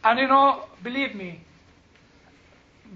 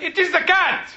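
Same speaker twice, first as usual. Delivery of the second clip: laughing punchline; 5 semitones higher than usual. Retold or imitated. Irishman's punchline.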